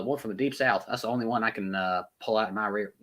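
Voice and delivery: put-on American southern accent; Deep South accent. Shown as a demonstration. Streamer showing his one passable accent, southern accent. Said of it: "the southern accent".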